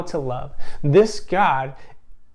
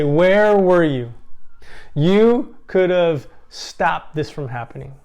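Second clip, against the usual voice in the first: loud, slow, pained demand; grieving sister demanding answers, angry and loud; angry accusation; 3 semitones higher, 7 dB louder than usual. Acted. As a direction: throw the blame at God, voice raised. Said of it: "I think she was a lot angrier".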